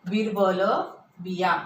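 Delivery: बिरबल and बिया with short bi; बिरबल, बिया, first vowels brief; quick short vowel. Shown as a demonstration. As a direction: say बिरबल, बिया briskly, i unstretched. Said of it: "असं लांब म्हणत नाही आपण".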